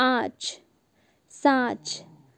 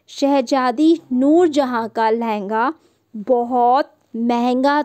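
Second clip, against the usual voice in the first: put-on reading aloud to children; slower than usual. Teacher reads practice sentences to the class, slow and clear. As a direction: read each word out slowly for young pupils.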